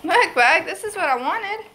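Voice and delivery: high, bright voice for a pet; sing-song it to the animal; pet talk. Real, not acted. Showing the pet a sheet.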